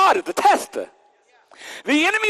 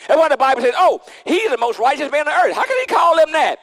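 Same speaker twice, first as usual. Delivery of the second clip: shouting; 6 semitones higher, 4 dB louder than usual. Acted. Preacher shouting about righteousness.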